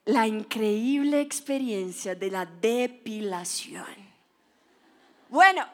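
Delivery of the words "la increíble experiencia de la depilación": slow, low and breathy mock-solemn; hushed dramatic reveal. Mother unveiling waxing to her daughter, hushed dramatic reveal. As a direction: whisper it like a grand secret.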